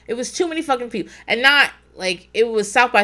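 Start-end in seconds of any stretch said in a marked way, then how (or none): 0.1-1.1 fast, tossed-off repeat; quick muttered repeat. Real, not acted. Repeating the crowd complaint to listeners, quick aside. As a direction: rattle it off under the breath.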